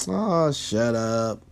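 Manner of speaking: slow, teasing, drawn-out "Oh, shut up"; playful. Retold or imitated. Partner teasingly telling you to shut up, playful. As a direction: toss it off as a light tease. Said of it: "in a playful way".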